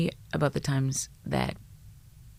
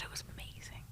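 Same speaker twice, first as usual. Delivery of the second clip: hushed awe; 20 dB quieter than usual. Retold or imitated. Officer recalls the dinner, moved.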